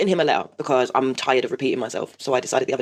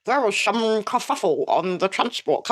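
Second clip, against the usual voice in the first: put-on high breezy casual teen voice; nonchalant teen; 7 semitones higher, slower than usual. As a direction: toss it off like nothing happened. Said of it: "And he's like".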